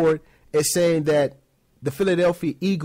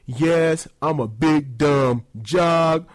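slow, dopey jock, a touch dim; a mild dumb-jock voice, slow; lightly voiced dumb jock. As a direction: play a clueless jock fumbling math. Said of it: "It's not like".

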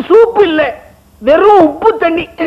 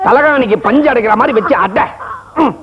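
crying while eating. Acted. Forced to eat the awful dish.

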